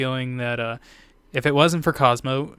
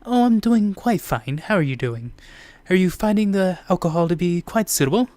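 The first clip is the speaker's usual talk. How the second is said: Cosmo character voice; 5 semitones higher, 3 dB louder than usual. Acted.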